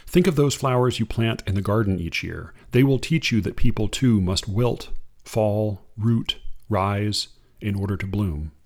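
unhurried reading of verse; poem reading. Acted. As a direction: read it like a poem to an audience. Reads a Kaur poem.

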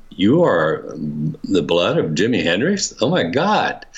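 mildly awestruck, climbing in pitch; retold flabbergasted. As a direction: reenact stunned disbelief, building at the end. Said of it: "I was flabbergasted".

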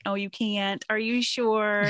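a hint of a snide mean girl doubting you; a touch of mean girl sneer. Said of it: "in the mean girl voice".

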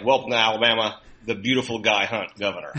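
reads the sign, breaking into a laugh; laughing sign reading. Retold or imitated. Reading the governor's sign aloud as one run-on phrase, laughing. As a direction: read it as one phrase, chuckling at the end. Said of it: "it looked like".

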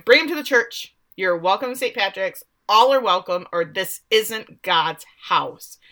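mild mock yell; mock screaming. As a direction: act out an indignant priest's cry, without full volume. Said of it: "Father starts screaming".

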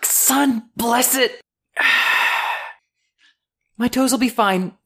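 put-on high, bright young woman's voice, friendly and a little awkward; Lucy, cheerful dock girl. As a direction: play the shy, chatty dock worker. GM voices Lucy after injury.

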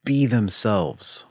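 slow effortful reply. Retold or imitated. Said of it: "gets her mouth ready to swallow".

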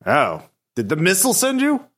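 lightly voiced giant skeleton, haughty; a hint of a scornful undead guardian.

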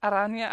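"araña" with no rolled r; learner's "araña", r not rolled; unrolled r in "araña". Real, not acted. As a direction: say "araña" with an English r and a weak ñ. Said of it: "I can't roll anything or do the ñ sound".

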